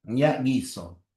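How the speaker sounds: guiso said slowly with a hard g; drawn out guiso, g as in gato; slow dictation. Shown as a demonstration. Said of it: "La transcripción de guiso sería así".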